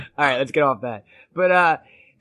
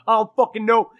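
imitating an exasperated friend, slightly higher; mock pissed-off reply; Jesse; 4 semitones higher than usual. Fired friend answering on the phone, mildly hammed-up exasperation. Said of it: "I was pissed".

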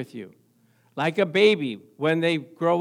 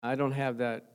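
cold spouse; 8 semitones lower, 8 dB quieter than usual. Retold or imitated. Spouse voiced falling out of love.

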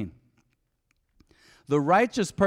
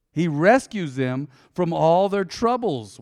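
slow, weighty, every word leaned on; drawn-out reading to make it sink in; slow emphatic reading; 3 semitones higher, 4 dB louder, slower than usual. Shown as a demonstration. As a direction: spell it out slowly so they take note. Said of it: "really pay attention".

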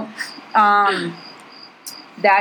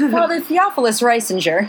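mock confident. Shown as a demonstration. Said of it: "I'll say really confidently".

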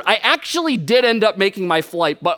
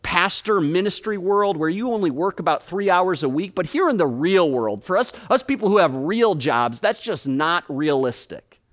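skeptical listener. Retold or imitated. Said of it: "I know what some of you were thinking".

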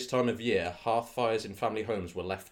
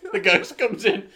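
put-on Irish accent; 12 semitones higher, 12 dB louder than usual. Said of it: "all just have the same voice".

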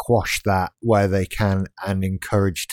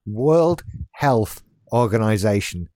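"World Health Organization" said slowly, each word placed; slow careful phrasing. Real, not acted. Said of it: "I can't even fucking say it".

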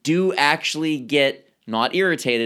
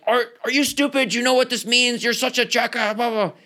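mock insult; 9 semitones higher than usual. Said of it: "So it's not saying".

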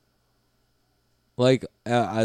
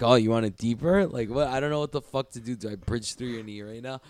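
bewildered; 2 semitones higher than usual. Retold or imitated. Acts out own confused reply.

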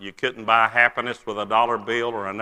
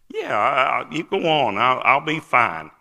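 mock tearful reassurance; 3 semitones higher than usual. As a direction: wave her on through pretend tears. Crying, reassures his departing wife.

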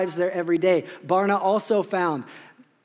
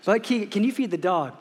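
laughing dad. Retold or imitated. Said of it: "And I say".

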